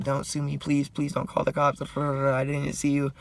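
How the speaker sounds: high-pitched mock begging; pleading old lady. Lady begs the man she hit, high mock pleading. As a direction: imitate a desperate plea, dragging out the end.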